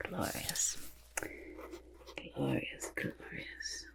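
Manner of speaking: murmured, fading away almost to nothing; hushed admiration. Pretend. Artist admires the work, hushed and fading.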